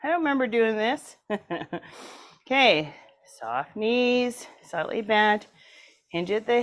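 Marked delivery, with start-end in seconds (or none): 0.0-1.2 confused muscles voice. Acted. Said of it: "They're saying".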